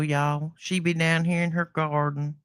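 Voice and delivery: lightly put-on Southern country accent. Shown as a demonstration. Cohost lets her covered Southern accent show, mildly. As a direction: let a little Southern twang out. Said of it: "Let me give 'em some voice without this, uh, accent I cover".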